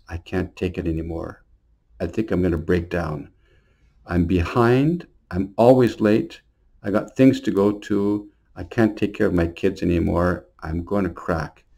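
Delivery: softly voiced tearful mother, a mild imitation; a hint of a worn-out woman near tears; retold crying. Exhausted mother pleading with the pastor, mild quiet crying. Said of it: "she just began to cry and cry".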